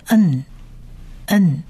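n as a lone word-ending nasal consonant; final nun sound. Shown as a demonstration. Teacher showing nun at a word's end, isolated n. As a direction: sound out n alone, pausing between repeats. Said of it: "它的发音是".

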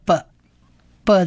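B said as a short "buh", not the letter name; B as a letter sound. Shown as a demonstration. Teacher shows Bet with a dot, short "buh" sound. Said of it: "它就是念B，B的音".

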